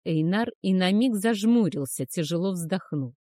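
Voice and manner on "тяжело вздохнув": usual speaking voice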